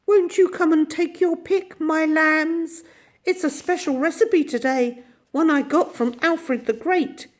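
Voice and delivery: put-on high, sweet old shopkeeper; sweetly inviting. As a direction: tempt the children kindly. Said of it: "smiled and beckoned so sweetly".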